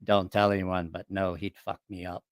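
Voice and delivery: low, confidential admission; Paulo. Retold or imitated. Paulo admitting to a shipmate who would win, low confiding imitation. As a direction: imitate a big man quietly owning up. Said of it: "he looked at me and he goes".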